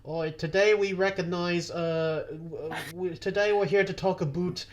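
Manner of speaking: lightly put-on, botched Canadian accent; stereotypical Canadian accent. Host mimics an official introducing a guest, hammed Canadian accent. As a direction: attempt a Canadian accent that drifts toward British. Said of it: "the most stereotypical Canadian accent".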